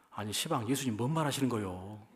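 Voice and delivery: light Jeolla dialect Peter, protesting mildly; a hint of Jeolla dialect as Peter objects. Peter rebuking Jesus, in a light Jeolla dialect. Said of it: "전라도 버전으로 가끔 얘기합니다".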